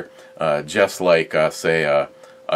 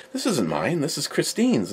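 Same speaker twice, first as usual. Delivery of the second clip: retold reveal; 7 semitones higher, 7 dB quieter than usual. Repeats the reveal quickly, softly.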